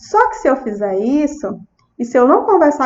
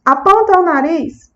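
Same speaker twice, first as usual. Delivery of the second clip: therapist's instruction; 3 semitones higher than usual. Shown as a demonstration. Therapist asking a child to point at the nose, clear prompting voice. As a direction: give a clear, encouraging command to a small child. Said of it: "Eu disse".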